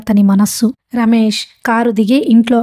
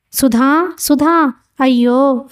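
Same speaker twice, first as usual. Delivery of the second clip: restrained wail in a raised pitch; anguished cry; 4 semitones higher, much slower than usual. A narrator's reading. Stricken old man cries for Sudha, mildly anguished. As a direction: call out in acted distress. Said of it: "ఆయన ఆక్రోశిస్తున్నట్టుగా అరవసాగాడు".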